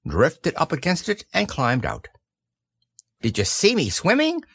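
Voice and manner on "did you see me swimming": put-on high, eager child voice; excited squeak. A narrator's reading. Roo asks after climbing out, excited squeak. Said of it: "squeaked Roo excitedly".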